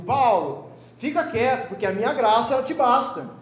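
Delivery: loud, firm "Paulo, fica quieto". Retold or imitated. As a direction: raise the voice like an irritated God laying down the law. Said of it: "Aí quando Deus fala um pouquinho mais alto".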